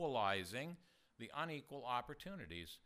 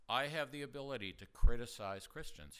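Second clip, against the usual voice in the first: deadpan, louder, keeping a straight face; 5 dB louder than usual. Retold or imitated. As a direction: say it dead serious, no smile. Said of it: "okay, straight face".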